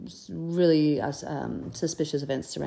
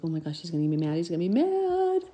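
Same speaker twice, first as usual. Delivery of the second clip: put-on nervous boy's worry. Samuel frets about Eli's anger, in nervous rising panic. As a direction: fret like a scared boy expecting trouble. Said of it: "I bet Samuel was just shaking".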